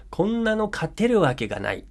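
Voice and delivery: high, hopeless cry of こんなの勝てるわけがない; despairing teammate. Shown as a demonstration. Teammate giving up, voicing hopeless despair. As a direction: sound like the game is already lost. Example sentence said with feeling.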